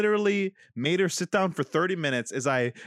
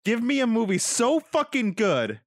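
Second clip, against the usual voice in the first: laughing mock rant; 5 semitones higher than usual. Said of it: "that it's ruined the whole".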